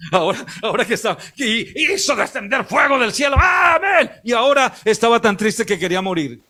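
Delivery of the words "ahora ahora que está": frase rápida entre risas; riendo. Real, not acted. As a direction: suelta la risa mientras habla. Predicador se ríe de Elías. (riendo al contar cómo cambia Elías)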